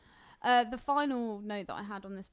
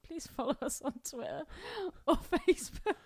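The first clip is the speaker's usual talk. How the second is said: high pleading voice with a laugh; mock pleading Ethan; 7 semitones higher than usual. Mocking co-host in a speech bubble, high pleading voice. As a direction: beg like a desperate co-host. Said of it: "a little speech bubble that just says".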